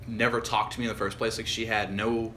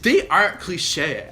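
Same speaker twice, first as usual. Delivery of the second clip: loud, higher, drawn-out imitated denial; mock indignant; 5 semitones higher, 6 dB louder, much slower than usual. Guy mimics his date defending her films, indignant. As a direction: stretch out the protest in a put-on higher voice.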